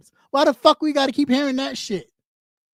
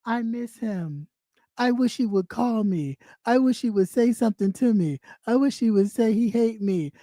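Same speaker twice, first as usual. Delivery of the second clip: mock lovesick girl; 3 semitones lower than usual. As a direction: whine it like a jilted girlfriend. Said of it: "like a little girl that broke up".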